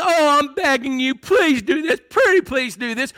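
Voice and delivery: lightly hammed-up pleading; mock begging. Preacher showing what Paul is not saying, mock begging. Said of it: "Paul is not saying".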